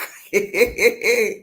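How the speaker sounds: loud burst of laughter; laughing. Real, not acted. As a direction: break into a laugh mid-act. Laughs between the angel's calls.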